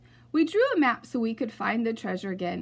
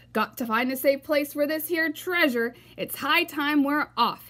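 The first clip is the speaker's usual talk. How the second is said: higher, louder captain's call; pirate announcement; 5 semitones higher, 4 dB louder than usual. Acted. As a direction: announce it to the crew. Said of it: "he announced".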